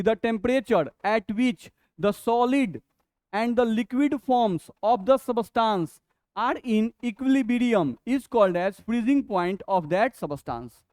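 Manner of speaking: very slow, measured reading; slow dictation. Acted. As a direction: dictate it phrase by phrase. Dictates the definition slowly.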